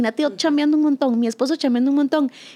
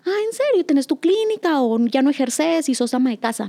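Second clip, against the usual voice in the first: surprised hairdresser. Retold or imitated. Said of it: "me dijo".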